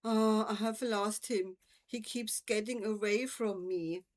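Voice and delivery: a touch of a tearful wail over a lost toad. Acted. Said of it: "he wailed".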